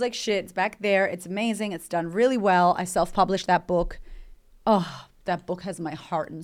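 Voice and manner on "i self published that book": normal talking voice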